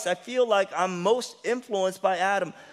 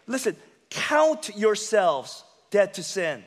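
slow scripture reading; 3 semitones higher, slower than usual. Shown as a demonstration. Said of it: "this is why Paul says this".

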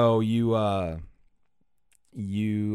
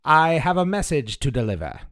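high-pitched little gnome voice; little rock gnome; 7 semitones higher, 5 dB louder than usual. Acted. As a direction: play a small gnome, pitched well up. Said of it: "the gnome says".

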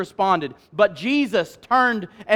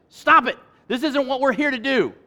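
stern rebuke; 6 semitones higher than usual. Acted. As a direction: snap them out of it like a teacher. Jesus rebukes his disciples.

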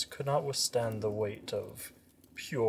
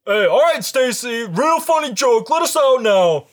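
put-on much higher, louder uneasy teen; nervous teen; 10 semitones higher, 13 dB louder than usual. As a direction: plead like a spooked teen. Voicing Todd.

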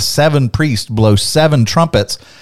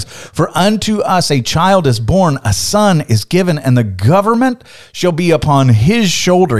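higher, bright proclaiming read; joyful proclamation; 5 semitones higher than usual. Shown as a demonstration. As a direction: announce it as good news. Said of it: "You're supposed to go".

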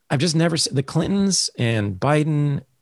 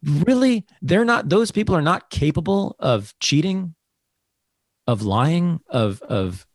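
sarcastic disbelief; 6 semitones higher than usual. Real, not acted. Sarcastic rhetorical question.

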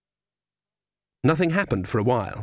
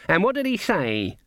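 eager, higher question; expectantly; 8 semitones higher than usual. A narrator's reading. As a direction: lean in, hungry for the answer. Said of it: "said Granny expectantly".

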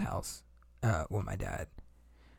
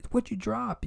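retold mom yelling; 12 semitones higher, slower than usual. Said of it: "I hear her screaming".

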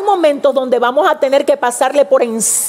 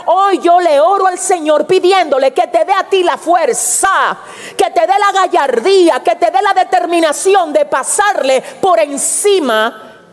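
fervent prayer; 3 semitones higher than usual. Real, not acted. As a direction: pray it out with growing force.

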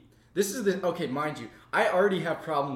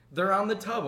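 imitated sleep-talker; 6 semitones higher than usual. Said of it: "she proceeds to have a full conversation".

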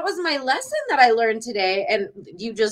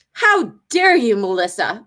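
mock scolding mom. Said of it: "she said".

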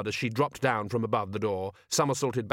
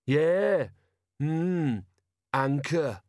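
ponderous, higher-pitched character musing; 5 semitones higher, much slower than usual. A narrator's reading. Detritus puzzling over the anchor, musing. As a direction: think aloud word by word, with pauses. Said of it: "mused Detritus".

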